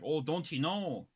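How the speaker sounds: slow mock Canadian accent; lightly put-on Canadian accent. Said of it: "if someone tries to do a Canadian accent".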